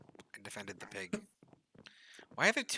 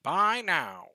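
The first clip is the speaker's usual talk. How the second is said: ad shout; 7 semitones higher, 12 dB louder than usual. Pretend. Ad tagline shouted.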